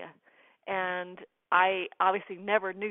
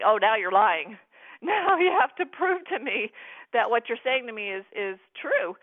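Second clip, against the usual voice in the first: indignant disbelief; 6 dB louder than usual. Retold or imitated. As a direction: call him out, laughing in disbelief. Confronting the scammer, retold.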